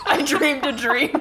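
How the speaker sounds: put-on a half-hearted New Jersey accent, laughing; sung-show line in mock New Jersey. Joking co-host rewrites Les Mis for Newark, mock New Jersey accent.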